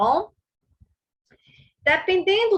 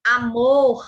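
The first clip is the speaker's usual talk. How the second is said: "amor" slowly, MOR held longer than A; stressed syllable lengthened; 4 dB louder than usual. Shown as a demonstration. Teacher pointing out the unstressed syllable, "amor" with MOR drawn out. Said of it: "o A é a sílaba átona".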